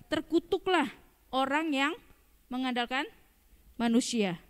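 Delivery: measured, word-by-word verse reading; scripture reading. Shown as a demonstration. Preacher reads Jeremiah to the congregation, slow and weighty. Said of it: "Yeremia tujuh belas ayat lima berkata".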